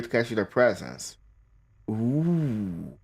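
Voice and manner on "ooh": long, soft falling "ooh"; ooh, gliding slowly down; drawn-out ooh. Real, not acted. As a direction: let out an intrigued, lingering "ooh". Reacting to spooky guide page.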